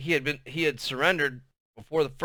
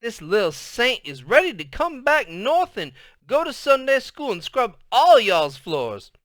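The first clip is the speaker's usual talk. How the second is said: shouting; 11 semitones higher, 6 dB louder than usual. Acted. Grandma shouting down the phone to Lona, loud and high. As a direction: holler it so they hold the phone away. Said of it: "she shouted".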